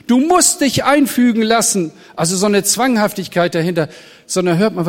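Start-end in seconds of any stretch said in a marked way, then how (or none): 0.1-1.9 louder and higher, a mock command; preacher voicing the wrong appeal, loud mock command; mock stern demand. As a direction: bark it like a strict order. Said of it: "Der Appell ist nicht".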